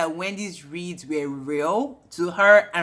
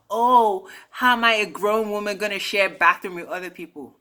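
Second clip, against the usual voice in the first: mock haughty, slightly raised voice; high and mighty. Vlogger mimicking a castmate's bathroom complaint, high and mighty. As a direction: imitate someone too grand to share. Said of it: "being so high and mighty".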